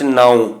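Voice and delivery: ਨਾਉ with n straight into the vowel; no h sound. Shown as a demonstration. Teacher explaining the word for God's name, no h sound. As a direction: keep ਨਾਉ free of any h. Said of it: "ਇੱਥੇ ਅਸੀਂ ਹਾ ਉਚਾਰਨ ਨਹੀਂ ਕਰ ਸਕਦੇ".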